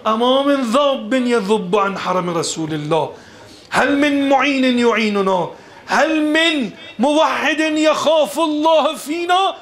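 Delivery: high, impassioned Arabic appeal; retold cry. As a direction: recite the plea for help, climbing in pitch. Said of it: "فریاد زد".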